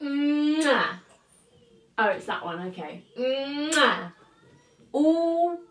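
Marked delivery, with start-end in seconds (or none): 0.0-1.0 kiss sound. Real, not acted. Kissing it better. 3.1-4.1 kiss sound. Real, not acted. Kissing it better.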